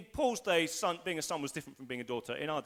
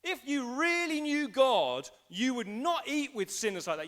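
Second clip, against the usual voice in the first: loud voice in the room; 7 semitones higher than usual. Acted. Critic rebuking believers for eating with sinners, acted indignation. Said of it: "The loud voice in the room says".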